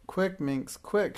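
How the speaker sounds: rising urgent witch shriek; mild panicked witch shriek. Acted. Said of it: "shrieked Madame Snickesnee".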